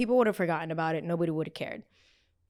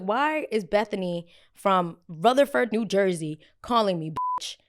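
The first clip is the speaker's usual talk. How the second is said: louder confronting challenge; mock angry confrontation; 4 dB louder than usual. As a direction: call her out by name. Confronting the prank caller.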